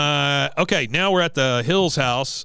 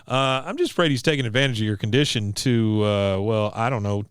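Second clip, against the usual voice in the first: fumbling, hesitant husband trailing into a question; real sheepish. Acted. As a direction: hedge it awkwardly, reluctant to say it. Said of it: "he says that real sheepishly".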